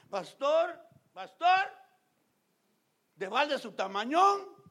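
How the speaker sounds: mock tearful pleading that swells into loud high cries of pastor; imitating tearful sister. Pastor retells a crying sister's complaint, mock tearful pleading. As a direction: play the weepy sister, half-hearted sobbing then wailing. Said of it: "me, llorando".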